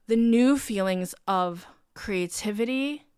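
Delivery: normal talking voice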